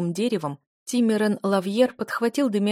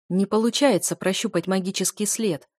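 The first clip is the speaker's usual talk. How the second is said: ordinary delivery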